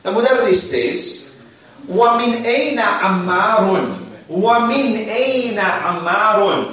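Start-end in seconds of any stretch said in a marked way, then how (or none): 1.9-6.7 slow drill. Shown as a demonstration.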